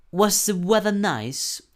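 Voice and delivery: "Was the weather nice?" said slowly as a question; question intonation. Shown as a demonstration. Teacher modeling question intonation for students. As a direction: ask it clearly, slow and deliberate. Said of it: "la entonación es diferente".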